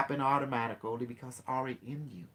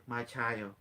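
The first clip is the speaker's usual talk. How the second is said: lightly voiced unimetric; 3 semitones lower, 5 dB quieter than usual. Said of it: "it said".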